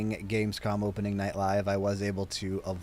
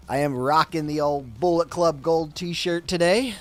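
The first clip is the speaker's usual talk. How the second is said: excited; 8 semitones higher, 8 dB louder than usual. Real, not acted. Shout out to a shirt.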